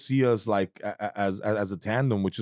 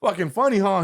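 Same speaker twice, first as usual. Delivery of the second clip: much higher, louder laughing brush-off; mock nervous laugh; 12 semitones higher, 4 dB louder than usual. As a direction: laugh it off thinking it's a joke. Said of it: "And I was like".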